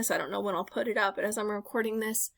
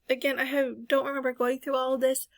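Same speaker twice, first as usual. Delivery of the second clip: yawning; 3 semitones higher than usual. Real, not acted. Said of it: "Sorry, I'm yawning".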